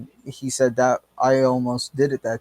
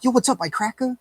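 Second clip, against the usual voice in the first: mock taunt; 10 semitones higher, faster than usual. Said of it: "you're like".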